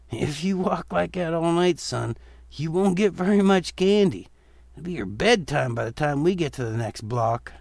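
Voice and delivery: gently mocking father figure; lightly voiced father. Father teasing his son about his stiff walk, light and amused.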